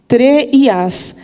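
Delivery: "tre e as" said slowly, the vowels run together; slow "tre e as", gliding the vowels into one; syllable junction demo. Shown as a demonstration. Teacher showing the vowel junction, slow. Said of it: "Essa junção acontece na escansão".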